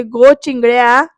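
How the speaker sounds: slow, drawn-out acted call. Bayo calls to Chingali, mildly acted slow call. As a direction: stretch the name to get attention. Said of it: "बयो हाक मारते".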